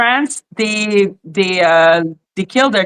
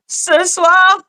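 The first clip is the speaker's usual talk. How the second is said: singsong French pickup line; 9 semitones higher than usual. Retold or imitated. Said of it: "They're like".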